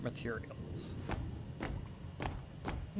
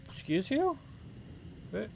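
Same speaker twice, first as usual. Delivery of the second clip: indignant squeak; 8 semitones higher, 6 dB quieter than usual. Acted. Reacting to in-game character.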